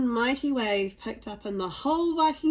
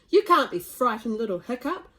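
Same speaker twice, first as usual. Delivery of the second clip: Stoic's voice; 6 dB louder than usual. Acted. Stoic laughs at son.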